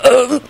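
high, choked um; short strangled noise; strangled croak. A narrator's reading. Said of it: "croaked out in a strangled tone".

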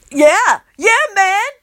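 strangled, trying to sound threatening. Acted. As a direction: squeeze the words out, failing at menace. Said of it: "in this strangled voice that I think is meant to be threatening".

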